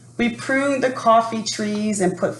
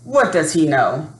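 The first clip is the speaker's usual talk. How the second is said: louder dismissive scoff; 4 dB louder than usual. Acted. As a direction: brush the man off with a loud scoff. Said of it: "she scoffed".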